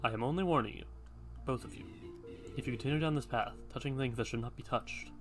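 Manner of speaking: a hint of a solemn old guardian; hooded man voice.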